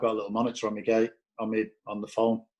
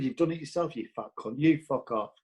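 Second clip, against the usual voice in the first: retold angry retort; 4 semitones higher than usual. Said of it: "that's exactly how I fucking said it".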